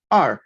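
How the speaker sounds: "er" as a Mandarin syllable with curled r; Mandarin pronunciation. Shown as a demonstration. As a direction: say "er" as a Chinese teacher's model. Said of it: "se pronuncia como".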